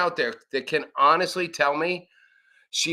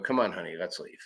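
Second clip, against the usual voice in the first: meek retreat; 8 semitones lower, 8 dB quieter, faster than usual. Retold or imitated. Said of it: "grab your girlfriend and go".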